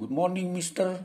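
the common mistaken greeting, said high and loud; wrong greeting. Shown as a demonstration. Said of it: "itu salah kaprah".

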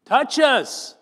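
Touches! shouted high and loud; stress on touches. Acted. Preacher stressing that Jesus touched the leper, loud. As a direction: hit Touches! hard as a preacher. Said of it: "he touches him. Touches!".

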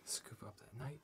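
whispered aside; hushed chess tip, under breath; leaning in to whisper. Real, not acted. Quiet aside during chess game.

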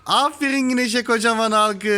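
praising cheer. Real, not acted. Cheering the baby for right answer.

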